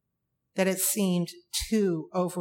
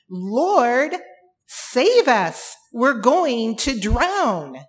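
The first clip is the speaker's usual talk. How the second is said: loud, desperate plea for rescue; frantic shout over the storm; panicked cry; 4 semitones higher, 7 dB louder, much slower than usual. Acted. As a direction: cry out as men about to drown. Disciples crying out in storm.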